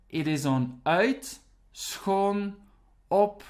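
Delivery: "uit", "schoon", "op" said on their own as stressed prefixes; name each prefix separately, with weight; stressing each prefix. Shown as a demonstration. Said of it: "the stress lies on the first part of the verb".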